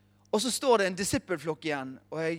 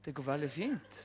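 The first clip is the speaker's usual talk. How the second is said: calm reassuring; 3 semitones lower, 6 dB quieter than usual. Retold or imitated. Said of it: "Så jeg bare sånn".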